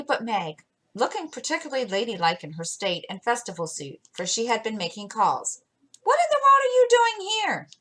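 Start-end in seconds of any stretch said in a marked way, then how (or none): 6.0-7.7 much higher, genteel astonished question; prim shock at a messy sister; well-bred surprise. Acted. Meg finding her disheveled sister on the road, primly surprised. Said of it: "with well-bred surprise".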